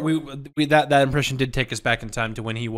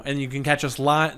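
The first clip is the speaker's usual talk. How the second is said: usual speaking voice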